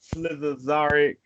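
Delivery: Slizazaric said slowly, mangled on purpose; mangling Slizazaric slowly; slow, mangled name; butchered name. Real, not acted. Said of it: "Probably gonna butcher too".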